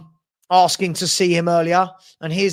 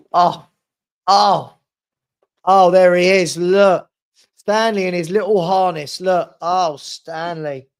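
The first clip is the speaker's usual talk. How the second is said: loud, gushing "oh" at the puppy; light up as he comes into view; delighted puppy greeting; 7 dB louder, slower than usual. Real, not acted. Owner spotting Stanley in his harness, loud and delighted.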